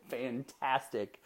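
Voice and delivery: slow, drawn-out word quoting the son; drawn-out retold answer. Son answering dad about school, drawn out. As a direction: stretch it out slowly, quietly savoured. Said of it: "And he laughs said".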